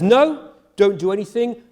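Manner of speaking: sharp high no, then firm; forbidding God. Acted. God voiced forbidding Abraham.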